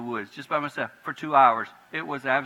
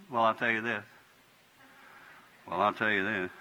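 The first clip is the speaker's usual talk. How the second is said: calmed down; 5 semitones lower, 6 dB quieter than usual. Shown as a demonstration. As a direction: lower and softer, calm. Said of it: "Go down".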